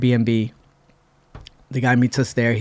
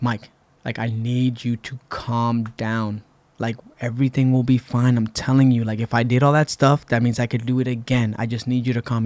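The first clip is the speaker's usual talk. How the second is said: calming him down. Retold or imitated. Calming panicking friend.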